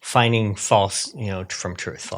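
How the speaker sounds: hesitant pundit imitation, rising at the end; a hint of an imitated commentator; Tucker. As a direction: lightly mimic a commentator, building to mock conviction. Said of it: "That's a pretty good Tucker impression".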